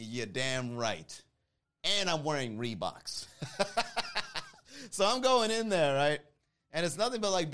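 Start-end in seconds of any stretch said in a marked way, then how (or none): 0.1-3.2 low, slow grumble to himself; 独り言のようにぶつぶつと低くゆっくり; grumbling. Retold or imitated. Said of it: "grumbles to himself".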